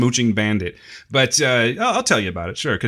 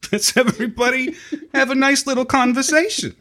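higher-pitched, goofy show-opening voice with laughter; put-on host voice; 8 semitones higher than usual. Co-host jokily opening episode fifty-five, goofy put-on voice. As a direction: lilt up high as a joke host. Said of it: "where that accent or that voice comes up".

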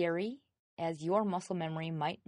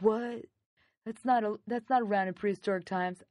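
higher, louder puzzled protest; mock bafflement; 3 semitones higher, 4 dB louder than usual. Players reacting to a hovercraft in prehistoric times, baffled. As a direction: imitate players objecting in disbelief.

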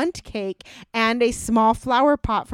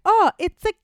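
mock delight; 8 semitones higher, 4 dB louder, faster than usual. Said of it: "she's like".

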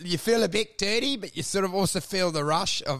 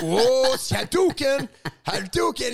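excited fan; 5 semitones higher, 4 dB louder than usual. Retold or imitated. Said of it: "And you're like".

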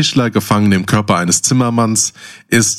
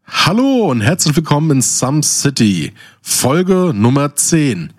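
slowing, announcer-style opening; announcer intro; slower than usual. Acted. Host opening the episode like an announcer. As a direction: announce the episode title with weight.

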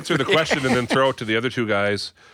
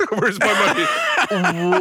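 put-on kid demanding money; 10 semitones higher, much slower than usual. Kid demanding payment, retold.

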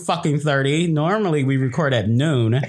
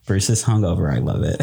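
ordinary delivery

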